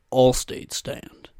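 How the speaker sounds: slow, measured announcer impression; a hint of calm commercial voice; soothing ad spokesman. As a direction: lightly imitate a reassuring insurance pitchman. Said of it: "that guy's a little more soothing".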